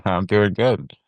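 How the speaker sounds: muffled voice through a rubber mask; inside a rubber mask. Real, not acted. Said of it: "I'm hot in this mask".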